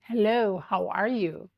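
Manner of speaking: lightly imitated formal greeting; a hint of careful, correct diction; very proper. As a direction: greet politely in a mildly proper voice. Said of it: "Very properly".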